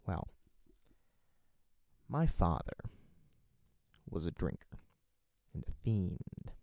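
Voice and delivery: lightly voiced Joker telling the scars story; a hint of a menacing clown; half-hearted Joker monologue; Joker impression. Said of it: "my Joker voice".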